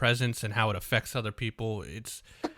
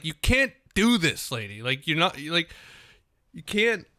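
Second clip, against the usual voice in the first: mock scolding; 4 semitones higher than usual. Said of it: "I just wanna say".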